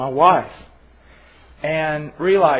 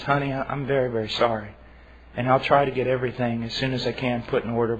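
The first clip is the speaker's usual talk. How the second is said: softer, lower, humble apologising wife; gentle apology; 4 semitones lower, 5 dB quieter than usual. Acted. Wife gently apologising to her grumpy husband, soft and humble. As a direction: soothe him with a sorry.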